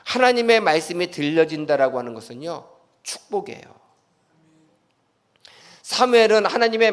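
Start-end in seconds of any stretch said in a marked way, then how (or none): 3.0-3.8 whispered emphasis. Real, not acted. Whispered key word.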